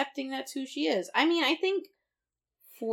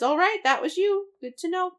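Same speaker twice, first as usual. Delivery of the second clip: high mock voice; 9 semitones higher, 5 dB louder than usual. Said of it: "He says".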